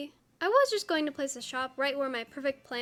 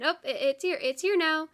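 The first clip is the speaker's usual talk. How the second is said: mock panic; 2 semitones higher, 5 dB louder than usual. Panic at building time.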